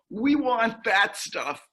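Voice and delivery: slow, emphatic mock demand; lightly acted insistence, word by word; retold demand. Other group confronting the researchers, mock demanding.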